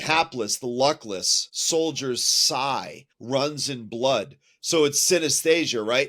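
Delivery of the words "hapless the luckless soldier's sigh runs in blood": poem reading. Shown as a demonstration. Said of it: "here's this stanza".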